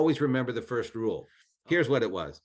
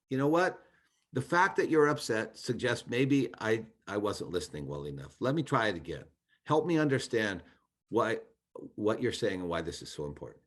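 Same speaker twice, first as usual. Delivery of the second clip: open-hearted; 3 semitones lower than usual. Retold or imitated. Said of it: "in a non-condescending way and literally a kind of an open-hearted".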